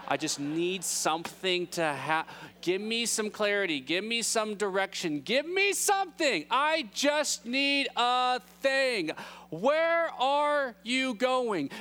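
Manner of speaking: hammed-up desperate begging, each word stretched; freaking out. Thomas begging Jesus for some direction, freaking out. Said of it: "they're freaking out".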